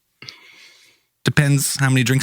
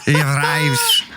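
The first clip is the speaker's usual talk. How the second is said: put-on Swedish accent sliding toward German; slower than usual. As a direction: attempt Swedish and let it drift German. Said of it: "it started going German".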